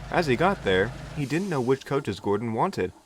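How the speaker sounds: usual speaking voice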